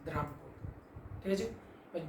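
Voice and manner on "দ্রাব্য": slow repeated dictation. Shown as a demonstration. Teacher repeating the point for the class to copy, slow. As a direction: repeat the line slowly, word by word. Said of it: "আবার বলছি".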